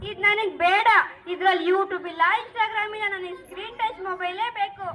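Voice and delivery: a hint of a child whining for a phone; sulking daughter. Daughter refuses old phone.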